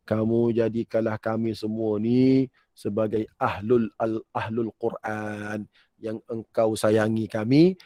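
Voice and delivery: measured, even-toned supplication; earnest prayer. Real, not acted. Preacher asking God to make everyone ahlul Quran, earnest measured prayer. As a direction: intone a sincere prayer on a steady note. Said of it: "Sungguh-sungguh minta lagu tu".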